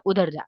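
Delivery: उधर with a short, light उ; short u demo. Shown as a demonstration. Teacher recapping the short vowel for students, quick and light. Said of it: "ह्रस्व मतलब क्या?".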